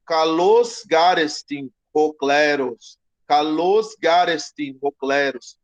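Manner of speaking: slow, deliberate "Kalos garestin hokleros", stress on kalos; Greek read slowly. Shown as a demonstration. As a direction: read the line slowly so students can follow. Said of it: "teacher reads Greek phrase twice". (leitura lenta de "Kalos garestin hokleros")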